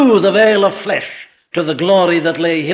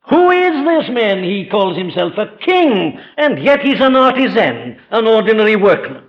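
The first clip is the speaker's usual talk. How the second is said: baffled questioners; 3 semitones higher than usual. Retold or imitated. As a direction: voice the crowd's scornful disbelief at a carpenter king. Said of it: "they said".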